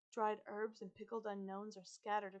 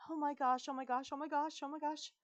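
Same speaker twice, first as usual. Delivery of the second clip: put-on higher, fretful girl voice; Isabella; 6 semitones higher, 6 dB louder than usual. A narrator's reading. Girl turned into a dog, panicking. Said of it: "says Isabella's voice".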